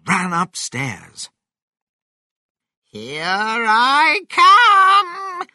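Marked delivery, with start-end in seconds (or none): 2.8-5.5 high, very long, loud holler; triumphant shout. A narrator's reading. Grandma bursts up through the ceiling, shouted. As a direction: stretch each word into a huge high yell. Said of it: "shouted Grandma".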